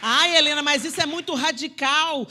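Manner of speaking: playing the shocked churchgoer, loud and whiny; mock protest. Preacher mimics a member's loud protest. Imagined objection from a listener.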